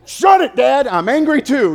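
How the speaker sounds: high, loud mock outburst; hammed-up angry retort. Joking comeback to his father.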